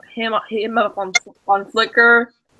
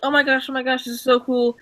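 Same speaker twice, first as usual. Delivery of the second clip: higher-pitched retold fan gushing; starstruck gushing; 4 semitones higher than usual. Fan gushing to the train builder he admires, starstruck.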